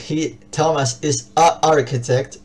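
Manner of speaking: "a architect" said slowly, two vowels clashing; wrong article demo. Shown as a demonstration. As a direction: stretch out "a architect" so the repeated a is heard. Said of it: "porque si yo digo". (ejemplo incorrecto, lento, con el choque de vocales)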